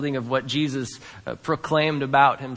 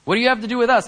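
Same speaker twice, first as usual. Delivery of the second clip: demon's cry; 10 semitones higher, 7 dB louder, much faster than usual. Retold or imitated.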